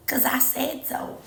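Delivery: whispered playful threat. Acted. Telling the viewer to be nice to herself, whispered. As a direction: breathe it like a secret warning.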